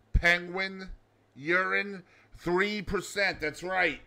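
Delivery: slow, drawn-out fact reveal; mock trivia segment host. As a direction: tease the fact slowly.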